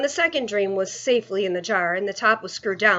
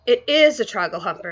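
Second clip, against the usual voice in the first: exasperated; 4 dB louder than usual. Acted. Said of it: "the exasperated B F G".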